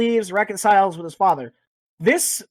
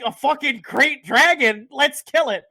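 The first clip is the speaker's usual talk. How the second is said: eager mock thrill; 5 semitones higher than usual. Player hearing about the dragon, mock eager. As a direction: relish the challenge. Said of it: "And you're like".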